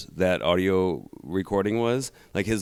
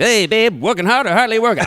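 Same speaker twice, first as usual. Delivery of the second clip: much higher, louder radio-host cheer; old-timey work voice; 13 semitones higher, 6 dB louder than usual. Pretend. Husband greets his wife in work voice, high announcer cheer. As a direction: blast a corny greeting in a vintage announcer voice. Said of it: "my work voice".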